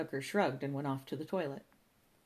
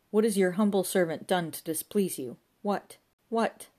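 loud plea climbing higher on each question; imploring God; 4 semitones higher, 6 dB louder than usual. A narrator's reading. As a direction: beseech heaven, then strain for the reply. O'Fagan beseeches God, straining to hear.

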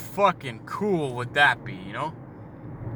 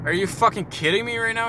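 higher, fast, incredulous retort; mock disbelief; 7 semitones higher, faster than usual. Retelling the waitress asking about bacon, in mock disbelief. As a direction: act floored by the question.

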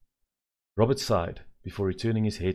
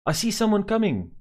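put-on high, loud excited child; excited shout; 14 semitones higher, 7 dB louder than usual. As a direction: call out thrilled from the car roof. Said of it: "exclaimed Annie".

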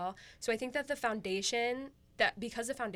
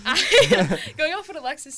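startled laugh; 7 semitones higher, 15 dB louder than usual. Real, not acted. Laughs when called on.

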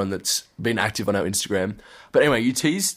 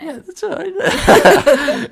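put-on drunk voice; 8 dB louder, much slower than usual. Mocking drunk friend's reply.

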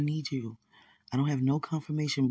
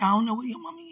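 surprised; 9 semitones higher, faster than usual. Retold or imitated. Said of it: "I'm like".

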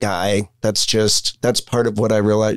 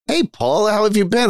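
imitating the store owner; 10 semitones higher than usual. Store owner voiced in retold story.

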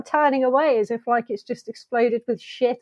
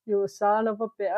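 half-hearted action-star impression, softer; Arnold Schwarzenegger; 5 dB quieter than usual. Shown as a demonstration. Attempting the hard impression for co-host, half-hearted action hero. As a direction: tentatively try the film-star voice. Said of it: "It's really hard to do that one".

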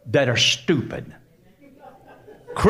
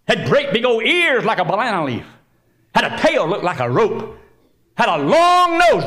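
put-on children's storytelling; 8 semitones higher, 5 dB louder than usual. Animated story told as to kids.

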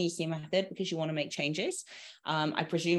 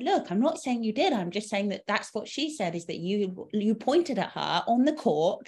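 mock explaining woman; 4 semitones higher than usual. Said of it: "She was so dramatic".

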